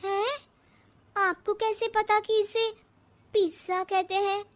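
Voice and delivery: high, startled disbelief; astonished question. Acted. Stunned bride asking her mother-in-law, high and startled. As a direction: ask as if you can't believe it.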